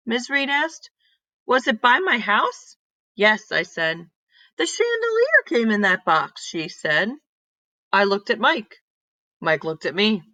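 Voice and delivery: put-on lively read-aloud voice for kids; storybook reading. Teacher reading a story to her class, lively read-aloud. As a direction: tell it like a picture book to a class.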